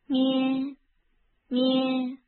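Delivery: loud bleating baa; sheep bleat. Acted. Sheep sound in picture book.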